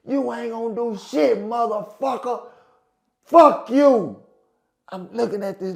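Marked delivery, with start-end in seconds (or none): 0.0-4.2 retold defiance. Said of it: "That little bitch say".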